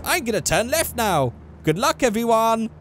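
high-pitched mock Asian-accented cartoon voice; high put-on Asian accent; Family Guy's Asian woman. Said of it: "it's like the Asian woman is like".

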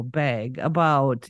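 slow, low Minnesota vowels; drawn-out Minnesota accent demo. Shown as a demonstration. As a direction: say bag as "beg", Minnesota style. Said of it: "a little bit more of a Minnesota accent".

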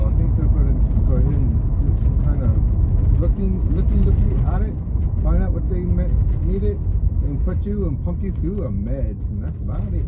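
put-on southern accent. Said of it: "I'm talking like a Southern".

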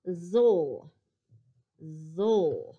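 "zol" drawn out, falling; "zol" with a buzzed z and dark l, no E heard; sound ZOL. Shown as a demonstration. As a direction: say "zol" as one isolated syllable. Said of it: "So I want the sound".

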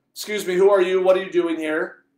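loud, high confrontational questioning; firm, angry challenge. Retold or imitated. Priest confronting men digging on campus, loud angry challenge. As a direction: challenge strangers sharply, reliving the anger. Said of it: "Started to be firm and kind of frank with them".

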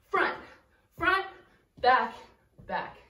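breathless from dancing; winded counting of steps; out of breath. Real, not acted. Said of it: "a little out of breath like me".

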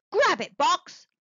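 loud urgent command; urgent call. Acted.

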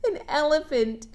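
chuckling through the correction; amused self-correction; laughing at own slip. Real, not acted. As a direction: laugh at your misreading. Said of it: "Miss Sarah's reading sideways".

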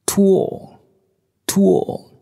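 high, rounded hooting; owl hoot. A narrator's reading. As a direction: hoot it out as a second owl, one call at a time. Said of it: "he tooted".

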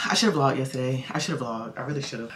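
winded after climbing stairs; breathless, catching breath between words. Real, not acted. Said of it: "I don't know why I'm out of breath".

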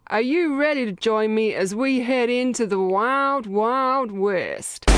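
greeting viewers like an old-time cowboy, lightly faked; cowboy accent. Intro to a Western game, in a mock Southern cowboy accent. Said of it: "we all know I can't do accents".

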